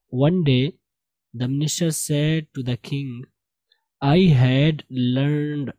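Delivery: slow, measured read-aloud; model reading. Shown as a demonstration. Teacher reads story to class, slow model reading. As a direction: read it out slowly for learners.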